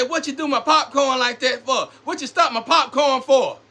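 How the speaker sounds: hammed-up scolding over popcorn; mock angry parent. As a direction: yell it like the parent, then break into a laugh.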